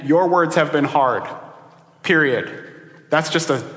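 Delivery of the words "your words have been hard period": "Your words have been hard" slowly, as a settled statement; matter-of-fact statement. Retold or imitated. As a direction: state "hard" with finality, then a separate "period". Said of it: "a sentence. I'm just saying what's true".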